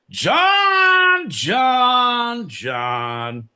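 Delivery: high, loud call of the name; exasperated shout. Acted. Pete shouting John's name before the through line. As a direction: call him out in mock despair.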